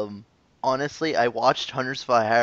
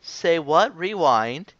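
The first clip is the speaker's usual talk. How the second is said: mock stunned double take, rising pitch then louder; acted disbelief; 4 semitones higher, 5 dB louder, much slower than usual. Host replays getting the reply, mock stunned disbelief. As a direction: build to a loud halt in disbelief.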